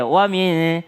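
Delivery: WA MIN with the hum cut short; rushed. Shown as a demonstration. Teacher showing a too-quick wa min, clipped short. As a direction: hurry through WA MIN. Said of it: "dipercepat ya".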